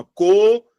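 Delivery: "copiado" broken into co, pi, a, do with long pauses; separated syllables. Shown as a demonstration. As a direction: say each syllable of "copiado" on its own. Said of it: "se eu for separar isso aqui, vai ficar assim".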